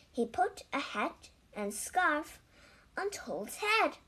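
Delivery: lively read-aloud with clear, measured phrasing; animated storytelling, words carefully spaced; children's story narration. A narrator's reading. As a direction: read a picture book to young children.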